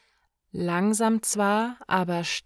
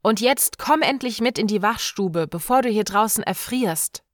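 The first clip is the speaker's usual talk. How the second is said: louder, fast impatient urging; 3 semitones higher, 4 dB louder, faster than usual. Acted. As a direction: hurry him inside. Björk dragging him inside.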